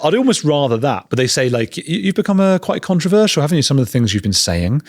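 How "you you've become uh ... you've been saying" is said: lightly mimicked snide friend, starting high; snarky remark. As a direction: retell a pointed party dig. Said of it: "someone making a snarky remark".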